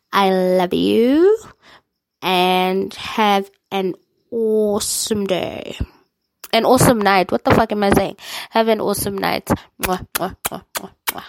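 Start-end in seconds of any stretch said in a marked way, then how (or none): 0.1-5.8 drawn out loving farewell; slow tender sign-off. Real, not acted. 9.8-11.2 soft kiss sounds; blowing kisses. Real, not acted.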